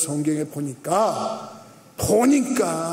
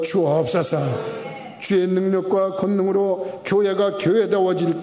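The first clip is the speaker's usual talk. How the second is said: closing prayer. Acted. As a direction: lift it up to God, unhurried and earnest. Pastor leads closing prayer.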